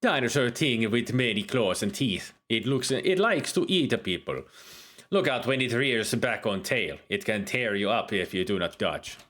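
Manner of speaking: lightly held put-on Jamaican accent; Jamaican-leaning accent. Uhura describes a dinosaur in a light Jamaican accent. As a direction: keep a loose Jamaican lilt. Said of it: "better at the Jamaican than African accent".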